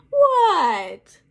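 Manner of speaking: high, loud startled yelp; startled what. Acted. Froggy startled by his teacher, loud high yelp. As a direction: jump like you were caught daydreaming.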